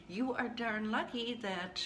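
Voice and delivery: stern half-joking reprimand; harsh tough love. Retold or imitated. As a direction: lay into them playfully. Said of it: "that was a little harsh".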